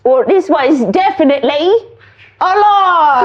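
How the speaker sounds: mock British accent for the big reveal; hammed-up British announcement; put-on British accent. Shown as a demonstration. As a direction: build to the reveal in fake British. Reveal after faked British accent bit.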